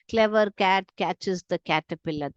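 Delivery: slow, each word spaced for the k sounds; slow teacher demo with the k sounds clear; slow example read. Shown as a demonstration. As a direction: read it out slowly, leaning on each k. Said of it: "क स्वर निकाल रहा है".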